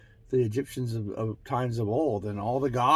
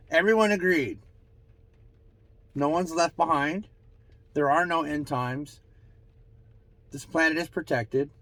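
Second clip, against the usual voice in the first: higher, measured pronouncement with pauses; channeled proclamation; 6 semitones higher, 5 dB louder than usual. Acted. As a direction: deliver each line as a decree. Channels Ra's answer.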